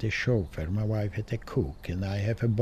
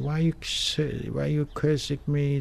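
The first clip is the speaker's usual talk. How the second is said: lightly voiced stranger, higher, hurt and puzzled; offended stranger; 7 semitones higher than usual. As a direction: ask it like a man stung by an insult. Retold stranger, offended reply.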